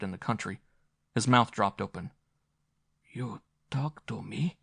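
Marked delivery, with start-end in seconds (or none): 3.1-4.6 breathed. A narrator's reading. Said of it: "he breathed".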